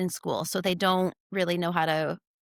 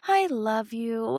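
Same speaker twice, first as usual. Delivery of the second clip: put-on calm kid voice; 2 semitones higher, slower than usual. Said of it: "very calmly says".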